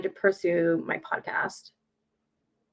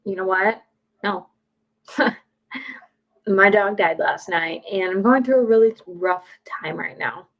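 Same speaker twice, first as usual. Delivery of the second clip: louder, frank honest answer; 4 dB louder than usual. Shown as a demonstration. Telling a stranger the truth about a bad day, frank and loud. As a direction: blurt out the real answer.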